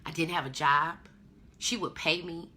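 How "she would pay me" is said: ordinary talk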